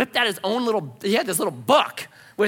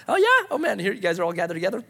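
eager surprise; faster than usual. Acted. Acting Peter's eager reaction to crowd.

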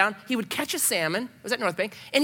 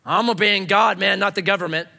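louder defiant anarchist; neighborhood anarchist; 4 dB louder than usual. Acted. Anarchist declaring his favorite text, defiant. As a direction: protest it like a local rebel. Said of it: "of your neighborhood anarchist".

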